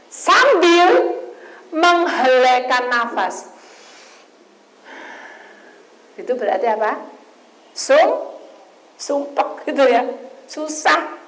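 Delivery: loud, high, urgent sermon push; preaching at full force. Acted. Preacher raising his voice to the church, preaching hard. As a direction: drive the point home to the congregation.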